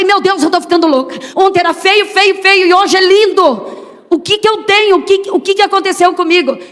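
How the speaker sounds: put-on mother overwhelmed by sudden love for the baby, exclaiming; bewildered joy. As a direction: gush in disbelief at your own feelings.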